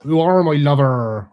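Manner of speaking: a jokey West Country "my lover"; playful mock West Country accent. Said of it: "Don't do accents round here anymore".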